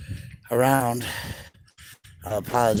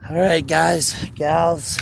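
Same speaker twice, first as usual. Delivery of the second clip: higher, louder call-out; excited greeting; 6 semitones higher, 7 dB louder, much slower than usual. Real, not acted. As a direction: hype up the viewers. Calling out to stream viewers.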